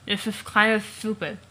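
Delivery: words garbled around an object held in the mouth; reading the line with a prop stuck in the mouth; something in the mouth. Shown as a demonstration. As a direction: copy the muffled teeth delivery. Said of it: "attempt to read his lines with something in my mouth".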